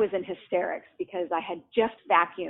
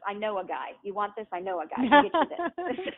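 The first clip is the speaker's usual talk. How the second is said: uncle's saying. Retold or imitated. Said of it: "the expression was".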